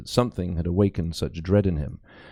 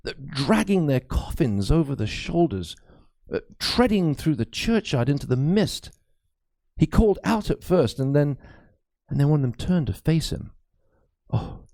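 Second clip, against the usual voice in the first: lightly voiced anxious old priest; a worried cleric confiding a ghost story; frightened priest; 3 semitones higher than usual. Priest confides his fears to Crispin, lightly voiced and uneasy.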